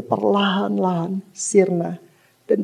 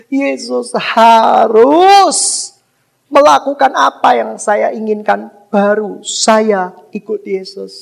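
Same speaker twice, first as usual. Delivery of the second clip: slow, louder, drawn-out demand on harus; mock demanding believer; 6 dB louder, slower than usual. Preacher mocks a selfish believer's bargaining, hammed-up demand. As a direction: mimic a believer bossing Jesus around.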